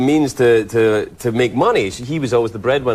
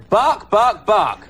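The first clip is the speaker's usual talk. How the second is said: Caine barking as Lassie; 6 semitones higher, much slower than usual. Retold or imitated. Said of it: "he could play Lassie".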